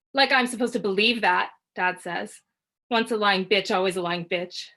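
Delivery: loud, cold contempt; bitter accusation. Acted. Husband accusing his wife, loud and bitter. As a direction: spit the insult at her.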